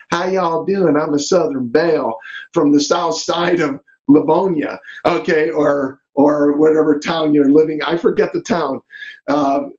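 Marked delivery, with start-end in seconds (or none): 0.1-4.8 lightly imitated Southern belle; Southern accent. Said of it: "she talks with the Southern".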